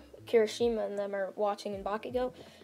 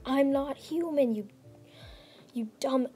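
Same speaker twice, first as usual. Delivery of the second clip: half-hearted mock yell, pitched up; retold yell; 4 semitones higher than usual. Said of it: "he just yells that out".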